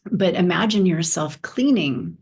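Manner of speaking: measured delivery with long pauses for imagining; unhurried guide, leaving space after each prompt; guided meditation. Real, not acted. Teacher leads listeners through imagining a white palace, guided meditation.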